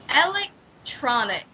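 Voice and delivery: electronic with stress on lek, not tron; model pronunciation. Shown as a demonstration. Teacher modelling electronic for student. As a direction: sound out electronic, weight on lek. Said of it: "I think it is on lek".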